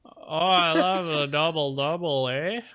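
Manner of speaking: lilting Canadian, drawing out the vowels; broad Canadian "eh"; mock Canadian accent. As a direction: join in as an agreeable Canadian. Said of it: "I like to do Canadian".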